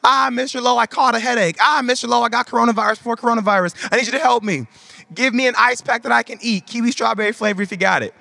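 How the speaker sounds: put-on high-pitched begging kid voice; whiny kids. Kids begging Mister Lowe for popsicles, high whiny voice. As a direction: play a needy little kid angling for a treat. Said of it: "all the little kids are coming up to me saying".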